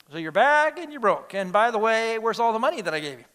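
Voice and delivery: accusing dad, voice pushed up; harsh father. Acted. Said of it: "that seemed a little harsh".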